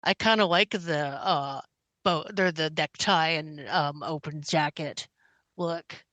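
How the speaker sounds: muffled by a cat in the face. Real, not acted. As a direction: talk through a cat's fur. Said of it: "Sorry, if I'm muffled".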